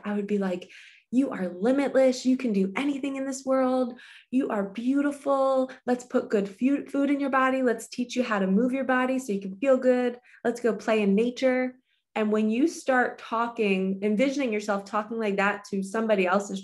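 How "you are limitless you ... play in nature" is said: put-on upbeat, higher cheering for a small child; pumping them up. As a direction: hype up a five-year-old, a bit higher. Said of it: "I would pump them up".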